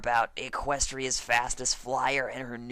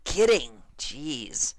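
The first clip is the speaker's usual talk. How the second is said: quick kidding; 4 dB louder, much slower than usual. Acted. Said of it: "She tossed out a quick".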